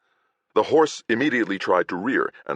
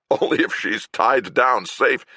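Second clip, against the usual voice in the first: laughing; 6 semitones higher, 3 dB louder than usual. Acted. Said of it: "Kador said, laughing".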